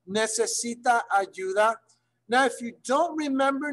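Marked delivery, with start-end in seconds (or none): 0.1-1.8 ¿Necesita ayuda? said slower for learners; slower repeat. Shown as a demonstration. Teacher repeats the question slowly for the class. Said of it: "question that you may pose".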